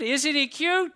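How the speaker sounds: put-on high cooing over a baby; sweet high baby-talk cooing. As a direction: coo it like at a cute baby.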